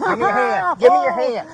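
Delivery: high, loud police order; urgent shouted command. Real, not acted. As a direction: shout it mid-struggle. Officer struggling to cuff suspect.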